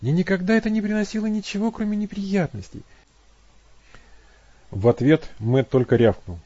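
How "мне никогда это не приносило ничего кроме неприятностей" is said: much higher, weary complaint; she's had only trouble from it; voiced Abby, troubled. A narrator's reading. Abby explaining to Matt, high and weary. Abby's voice continues.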